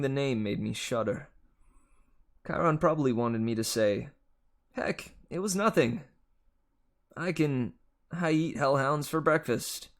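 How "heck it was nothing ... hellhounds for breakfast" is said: higher, cocky boast; mock bravado. Percy imagining a tough answer for Chiron, cocky. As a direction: brag like it was nothing.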